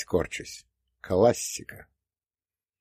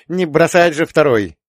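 put-on old prospector; 6 semitones higher, 6 dB louder than usual. A narrator's reading. Old man puzzling over trucks.

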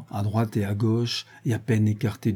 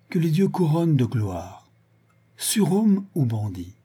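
higher, measured oratory; exalted declamation; 5 semitones higher than usual. A narrator's reading. Self-styled prophet addressing himself, exalted declamation. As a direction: proclaim it grandly, slowing on the alternatives.

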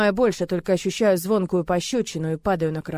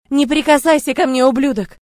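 furious screaming; 7 semitones higher, 12 dB louder than usual. Acted. Heroine screaming accusations at Murat, furious. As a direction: hurl every word at him. She fights his grip.

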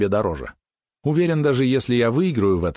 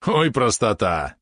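high, stretched, mocking yap; Валерон yapping; 6 semitones higher, much slower than usual. A narrator's reading. Small companion scoffs at the naive lad, yapping. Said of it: "тявкнул Валерон".

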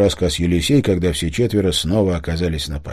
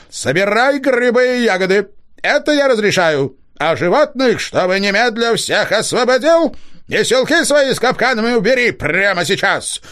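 ringing booming voice; 11 semitones higher, 3 dB louder than usual. A narrator's reading. Spirit voice from the hollow commanding the hunter, ringing and rolling. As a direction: boom it out like a hidden spirit.

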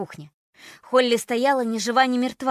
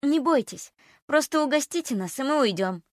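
reassuring; 5 semitones higher than usual. Acted. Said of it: "попыталась его успокоить".

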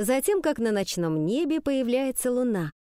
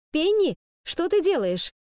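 loud call; 8 semitones higher, 3 dB louder than usual. Acted. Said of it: "громко спросила".

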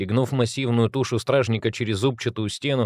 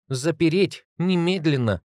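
stern command; 7 semitones higher than usual. Acted. Maria orders gate closed.

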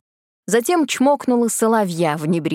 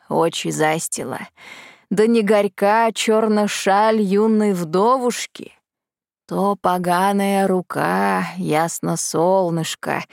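slow, sing-song folk verse; poem recitation; slower than usual. Acted. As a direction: chant it like an old ballad. Chanted poem read slowly.

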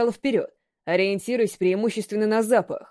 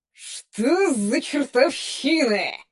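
rough distorted voice; 4 semitones higher, much slower than usual. A narrator's reading. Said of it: "Грубым искажённым голосом спросил".

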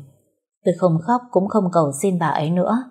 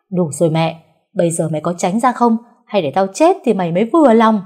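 angry retort; 4 dB louder than usual. Acted. Mother snaps back at son.

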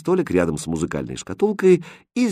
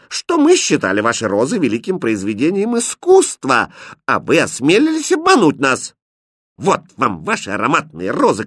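very high, loud, lofty retort; haughty; 5 semitones higher, 3 dB louder than usual. Acted. Princess answers the prince haughtily, loud and lofty. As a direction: look down on him. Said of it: "высокомерно ответила принцесса".

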